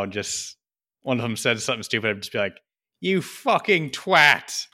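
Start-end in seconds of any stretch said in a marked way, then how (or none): 3.0-4.7 drawn-out, higher-pitched mock insult; playful mock insult. Drinking around with friends, slow teasing insult. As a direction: stretch it out with playful relish.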